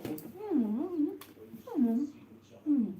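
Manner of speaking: humming through a mouthful of chocolate; mm-hmm while chewing; mouth full. Real, not acted. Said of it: "I'm not talking with my mouth full".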